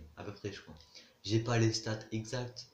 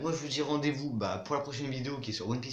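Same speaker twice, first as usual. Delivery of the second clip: youtube outro; 3 semitones higher than usual. Acted. Video outro sign-off.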